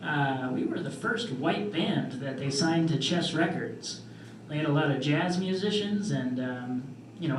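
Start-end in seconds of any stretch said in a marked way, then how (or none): 0.0-4.0 impression of dad. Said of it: "he'd say".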